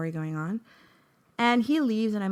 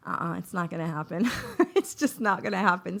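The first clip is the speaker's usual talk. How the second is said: laughing no. Real, not acted. Laughing dismissal.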